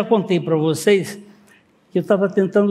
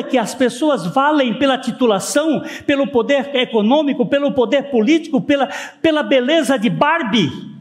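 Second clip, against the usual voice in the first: raised, emphatic sermon voice; preaching; 7 semitones higher, 3 dB louder than usual. Acted. Pastor preaching hard at his congregation, emphatic. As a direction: preach it out to the whole church.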